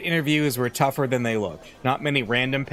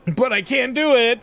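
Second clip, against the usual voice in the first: high, loud, whiny protest; whining girl; 12 semitones higher, 5 dB louder than usual. Acted. Shy reporter whining to her editor on the phone, high and whiny. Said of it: "Chiaki whined again".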